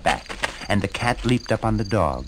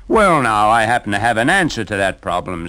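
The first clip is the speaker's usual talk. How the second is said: hearty donkey; 6 dB louder than usual. Acted. Donkey voice, confident offer.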